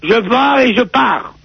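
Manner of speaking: drawn-out, theatrical announcement; put-on solemn defiance; slow defiant declaration. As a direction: spell out the decision slowly. Acts defiant brother leaving.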